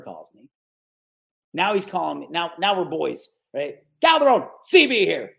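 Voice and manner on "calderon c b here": higher, louder hearty greeting; imitating loud caller. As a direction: boom the name down the phone. Boss calling him, loud.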